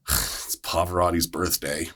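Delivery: understated retold grumble after a sigh; pissed off. Patient explains his bad mood to the crew, quietly pissed off. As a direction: imitate a pissed-off man, slow and subdued. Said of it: "he was pissed off".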